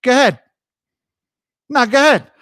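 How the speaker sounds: short, pushy New York delivery; New York phrase. Acted. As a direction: toss it out like a New Yorker. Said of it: "I always have these New York phrases that I love".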